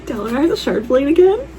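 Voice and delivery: high, loud question with AGAIN stressed; disbelief, lean hard on again; incredulous. Real, not acted. Reader amazed by the plot, high loud incredulous question. Shocked at book twist.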